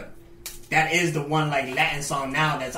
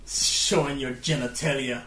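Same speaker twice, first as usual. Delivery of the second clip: mock hero voice; 6 dB louder than usual. Mock heroic confrontation, laughing.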